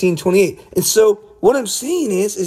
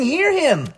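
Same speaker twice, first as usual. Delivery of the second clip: "Hear" pitched high and hit hard; emphatic quote; 8 semitones higher than usual. Shown as a demonstration. Preacher stressing God's command to his viewers, emphatic. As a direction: ring out the command. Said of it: "Look, he's saying".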